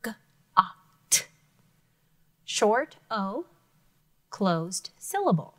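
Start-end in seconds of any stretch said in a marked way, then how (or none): 0.0-1.2 G-A-T whispered letter by letter; whispered spelling. Shown as a demonstration. Teacher whispering the spelling to the class. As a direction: breathe G-A-T out as a whisper. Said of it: "makes it stay a short vowel sound".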